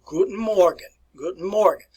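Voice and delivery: "Guten Morgen" as a model greeting; "Guten Morgen" with a hard German G; German pronunciation. Shown as a demonstration. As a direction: say "Guten Morgen" clearly for learners to copy. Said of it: "I want you to tell me".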